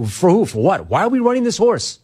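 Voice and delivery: rising, exasperated questions to the manager; retold frustration, pitch climbing; incredulous. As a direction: ask why in disbelief.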